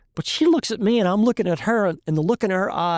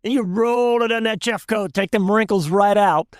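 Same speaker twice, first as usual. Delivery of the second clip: put-on thick Cajun accent; 3 semitones higher than usual. Cajun shrimper explaining to the class what to do, thick Cajun accent. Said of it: "Bernard says in that thick Cajun accent".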